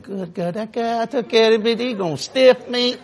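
a touch of mock dismay, slowing down; worried waitress's thoughts. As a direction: lightly imitate a waitress grumbling inwardly, drawn out at the end. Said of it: "I'm pretty sure she's thinking".

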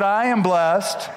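am stretched out slowly as the key word; stress on am. Shown as a demonstration. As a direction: lean on "am" in "I am blessed", not were. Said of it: "He didn't say, "You were blessed".

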